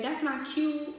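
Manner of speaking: imitated going off. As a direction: imitate dad's indignant telling-off. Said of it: "He started going off".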